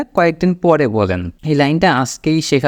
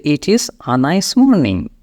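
drawn-out teaching delivery; slow model sentence; much slower than usual. Shown as a demonstration. Teacher shows beginners how to say it, slowly. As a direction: say it very slowly and evenly for learners. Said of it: "এইভাবে বলবেন".

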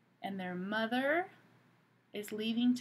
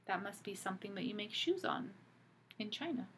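unvoiced quick aside; whispered aside; 7 dB quieter, faster than usual. Real, not acted. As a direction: whisper it to yourself.

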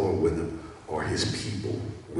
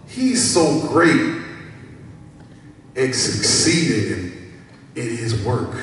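emphatic praise; 6 semitones higher, 7 dB louder than usual. Acted. Preacher praising an example worker, emphatic. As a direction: sing his praises, high and loud.

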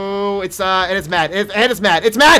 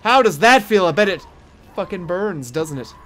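mock taunt. Taunting the burning monster.

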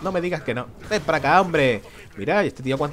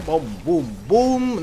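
imitated explosions; much slower than usual. Gamer voicing bombs going off, mock booms. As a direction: make the bombs go boom.

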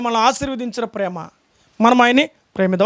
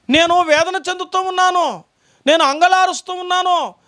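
higher-pitched lament, voicing God in sorrow; grieving God's voice; 3 semitones higher than usual. Preacher voicing God mourning over his lost people, higher lament. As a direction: plead as a grieving father over lost children. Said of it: "అన్నాడు".

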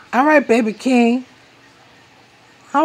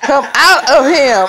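laughing; 4 semitones higher than usual. Real, not acted. Mother laughing at baby's roar.

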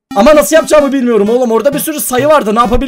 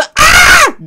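sudden very high, loud "Aa!"; mock manly scream; 4 dB louder than usual. Shown as a demonstration. Player showing how he will scream all video, mock scream. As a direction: let out a comic high-pitched shriek. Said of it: "diye erkeksi çığlıklar atarım".

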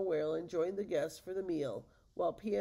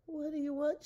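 startled question; 10 semitones higher, 3 dB louder than usual. Acted. Pia surrounded by huge ogres.

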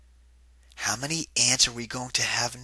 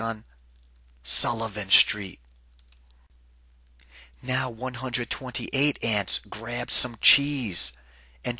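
building storybook read, a bit livelier; reading to children. A narrator's reading. Narrator reading to kids as the ant line grows, livelier storybook voice. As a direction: read on with growing excitement for the kids. Reads picture book aloud.

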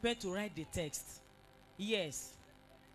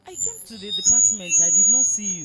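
calling on phone; 4 semitones higher, 20 dB louder than usual. Real, not acted. Phone call, complaining.

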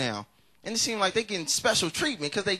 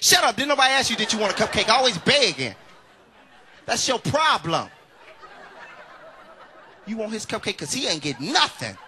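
louder snapping mom; angry mom; 4 semitones higher, 4 dB louder than usual. Retold or imitated. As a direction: snap at the kid. Mama snapping at son.

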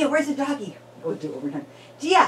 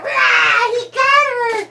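excited cheer; 9 semitones higher, slower than usual. Real, not acted. Parent to baby as the bear catches her, high excited cheer. Tickle climax shout.

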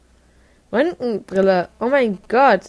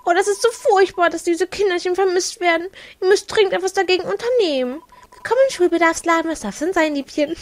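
higher, sugary shop-lady voice; sweet shopkeeper voice; 7 semitones higher than usual. Pretend. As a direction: play the fussing shopkeeper who calls you Liebchen. Voicing shopkeeper NPC dialogue.

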